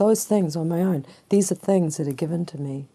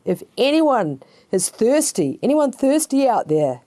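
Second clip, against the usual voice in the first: raised, higher-pitched hail to a crowd; calling out; 6 semitones higher, 4 dB louder than usual. Acted. Preacher as Jesus inviting the thirsty crowd, calling out. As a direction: call out an open invitation. Acted call to the riverbank crowd.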